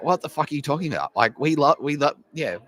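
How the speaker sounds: playing an outraged student, voice shooting up; mock Chinese student. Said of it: "they're like".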